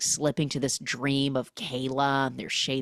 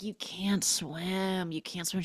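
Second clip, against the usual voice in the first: hushed worried plea; 4 semitones higher, 5 dB quieter than usual. Retold or imitated. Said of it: "She's like".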